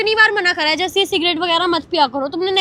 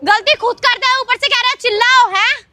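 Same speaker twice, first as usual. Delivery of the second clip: shouting; 4 semitones higher than usual. Real, not acted. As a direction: shout him down. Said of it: "मैं ऐसे ही चिल्लाऊंगी".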